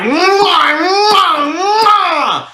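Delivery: high, loud smacking kiss sounds with a laugh; hammed-up kisses, laughing through them; mock kissing noises. Comic miming going down on her, loud smacking kisses.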